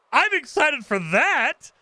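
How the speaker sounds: high, slow and drawn out with excitement; excited. Real, not acted. Streamer gushing to chat about a dinosaur game, excited. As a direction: stretch it like you can't wait.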